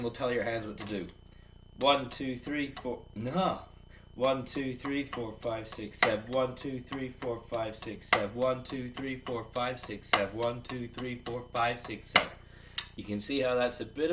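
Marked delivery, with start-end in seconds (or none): 1.8-3.0 counting out loud. Shown as a demonstration. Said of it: "So counting out loud". 4.1-12.3 steady count, seven clipped to sev; counting out loud. Shown as a demonstration. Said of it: "So counting out loud".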